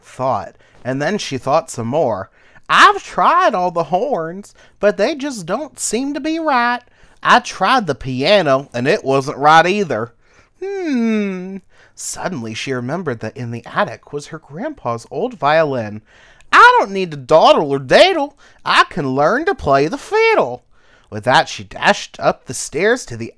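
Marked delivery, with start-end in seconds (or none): 2.7-11.6 high cricket voice, pondering; musing cricket. Acted. Cricket trying instruments, puzzled and musing. 16.5-20.6 high, loud cricket voice; eager resolve. Acted. Cricket remembering grandpa's violin, eager.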